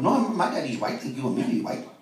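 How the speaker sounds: mock Pakistani English accent. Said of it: "why are you talking like that".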